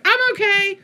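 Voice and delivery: put-on chirpy little girl. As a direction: imitate the tiny girl bouncing back. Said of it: "she's like".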